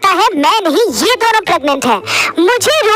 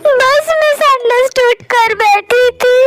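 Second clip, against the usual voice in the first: crying; 3 semitones higher, much slower than usual. Acted. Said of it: "तू रो क्यों रहा है दो घंटे से?".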